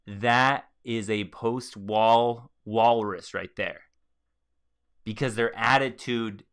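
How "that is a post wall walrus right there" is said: slow mocking. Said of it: "I'm like".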